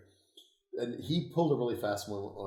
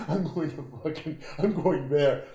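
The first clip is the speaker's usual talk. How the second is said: louder, higher excited blurt; retold excited resolve; 6 semitones higher, 9 dB louder than usual. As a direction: blurt it out, fired up about leaving. Retold eager decision to move.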